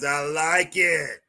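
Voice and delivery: slow, drawn-out catchphrase delivery; savoring, long-held vowels; Booker T. Retold or imitated. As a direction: stretch it out like a wrestling catchphrase. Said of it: "I'm like doggone Booker T".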